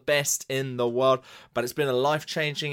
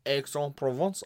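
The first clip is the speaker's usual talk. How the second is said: bad French accent, softer with a rising end; terrible French accent; 5 dB quieter than usual. Shown as a demonstration. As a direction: have a clumsy second go in a French accent. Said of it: "doing a terrible French accent".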